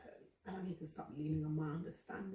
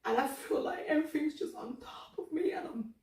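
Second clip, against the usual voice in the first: higher, breathy whisper of a worn-out woman; whispered exhaustion; 9 semitones higher, 4 dB louder than usual. Real, not acted. Confessing to God she is tired, whispering. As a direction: let it collapse into a whisper. Breaking down while praying.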